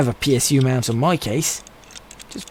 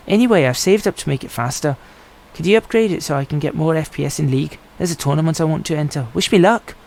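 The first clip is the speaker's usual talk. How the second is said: put-on terrible Irish accent. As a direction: read the gamer's email in a mock Irish accent. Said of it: "That was a terrible accent".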